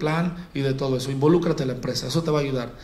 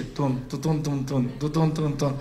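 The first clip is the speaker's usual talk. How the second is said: imitating club beat; 4 semitones lower, 5 dB quieter, slower than usual. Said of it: "canciones esas que les dicen de punchis punchis".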